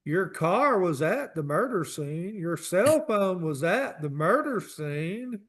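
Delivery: slow, drawn-out accusing detective; mock detective. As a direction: lay out the evidence slowly, like a cop. Mock detective confronting suspect.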